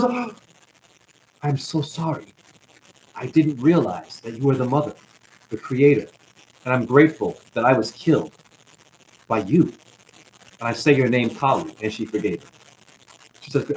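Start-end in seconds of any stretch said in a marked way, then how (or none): 0.0-11.7 humbly repentant demon. Retold or imitated. Dying demon apologizes to Kali.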